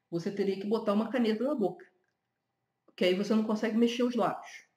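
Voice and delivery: talking around a pen held in the mouth; pen in teeth. Shown as a demonstration. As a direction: speak with a pen clamped between teeth. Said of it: "Vou mostrar pra você".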